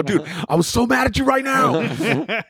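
high, slow, laughing through it; laughing confession. Retold or imitated. Comic admits his grudge to the other comic, laughing high.

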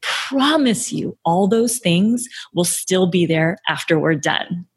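slow, reassuring promise with a smile; smiling, drawn-out reassurance. Shown as a demonstration. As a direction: lean slowly on "promise", smiling. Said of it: "Say that with a smile".

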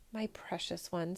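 a grieving father's soft words; sadly. Acted. Emperor to his sick daughter, softly sad. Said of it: "said the emperor sadly".

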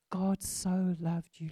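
slow, letting each word sink in; slow and deliberate. Real, not acted. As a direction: say it slowly so it sinks in. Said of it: "Let that sink in".

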